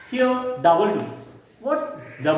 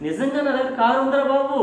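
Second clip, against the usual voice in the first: quick, higher, pleading "really, I have one"; "honestly, I do have a car, man"; exasperated insistence; 6 semitones higher, much faster than usual. Shown as a demonstration. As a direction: blurt it out to be believed. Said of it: "That means".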